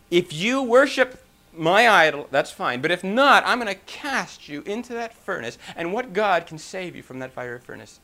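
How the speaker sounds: mildly threatening king. Retold or imitated. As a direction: lay down a royal ultimatum, mildly heated. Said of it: "he was really upset now".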